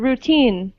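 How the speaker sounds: "routine" as rou-TINE; second-syllable stress. Shown as a demonstration. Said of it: "the stress on the second syllable".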